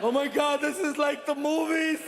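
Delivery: like you're in a movie; excited freak-out. Retold or imitated. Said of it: "freaking out like".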